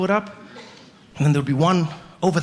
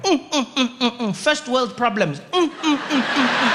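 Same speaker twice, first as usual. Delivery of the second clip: higher, smug mm sounds; smug munching; 5 semitones higher than usual. Retold or imitated. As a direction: hum smugly over popcorn. Kid eating popcorn smugly.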